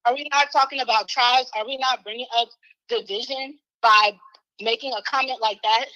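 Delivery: winded, short breaths between words. Real, not acted. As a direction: speak while still panting. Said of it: "I'm so out of breath".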